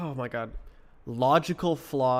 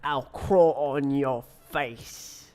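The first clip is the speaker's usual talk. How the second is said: slow menacing creature voice; creepy monster voice; 3 dB louder, much slower than usual. Pretend. Teasing the viewer, a slow creepy creature threat. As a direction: creep it out slowly like a crawling thing.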